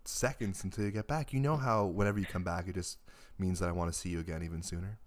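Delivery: sultry, soft sultry voice. Acted. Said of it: "Nice sultry voice".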